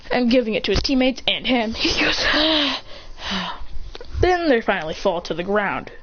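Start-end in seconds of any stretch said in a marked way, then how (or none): 2.3-4.2 long breathy acted sigh; acted exhale. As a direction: let out a spent breath. Character lets breath out after effort.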